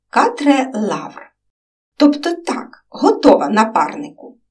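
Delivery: brisk, cheerful reporting for duty. Acted. Girl reports to her partner, cheerful and brisk. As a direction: report in like an eager agent. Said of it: "бадьоро відзвітувало дівча".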